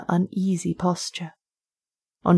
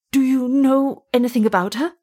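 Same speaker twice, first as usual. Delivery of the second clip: a higher, urgent question; eager; 6 semitones higher than usual. Acted. Wolfgang pressing the officer, eager and higher. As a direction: press him anxiously for an answer. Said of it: "said Wolfgang eagerly".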